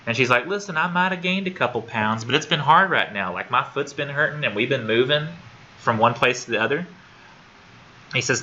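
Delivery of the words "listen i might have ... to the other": higher-pitched defensive excuse-making; mildly frustrated patient. Retold or imitated. Patient making excuses to her doctor, mildly frustrated. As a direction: retell a patient pushing back, pitch raised. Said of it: "she's getting frustrated".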